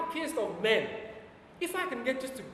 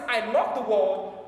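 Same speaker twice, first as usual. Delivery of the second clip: slow, loud, deliberate; slow declaration; 3 semitones lower, 4 dB louder, slower than usual. Acted. Preacher voicing God to the congregation, slow and loud. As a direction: give God's words weight, slowly. Preacher voices God's words.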